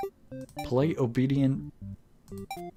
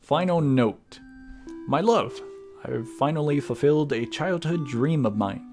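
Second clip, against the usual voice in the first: theatrical letter reading with swooping pitch; lilting dramatic letter voice; Tragedy, writing to a love. Acted. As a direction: read it like an actor's heartfelt love letter, with measured pauses. Reads character's letter to beloved.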